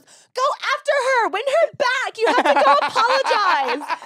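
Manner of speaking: put-on high, excited girly voice; imitating cheering girl. College girl urging drunk husband to chase wife, high giddy cheer.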